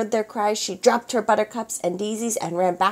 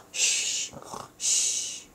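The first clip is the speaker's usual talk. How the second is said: shushing; 8 dB quieter than usual. A narrator's reading. Sneaking past sleeping pirates.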